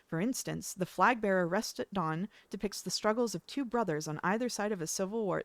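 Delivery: polished video essay narrator; YouTuber voice. Shown as a demonstration. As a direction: read it like a YouTube explainer. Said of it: "This is my YouTuber voice".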